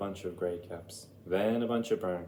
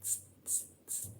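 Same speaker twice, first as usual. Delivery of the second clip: breathy mocking tss from the monkeys; cheeky monkeys mocking the peddler's scolding; monkeys tsk-tsking back; 11 dB quieter than usual. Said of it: "shook their fingers back at him and said".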